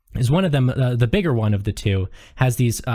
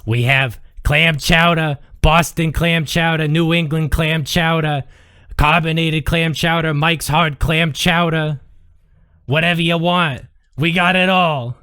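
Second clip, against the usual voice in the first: waitress voice; 3 semitones higher than usual. Acted. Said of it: "She says".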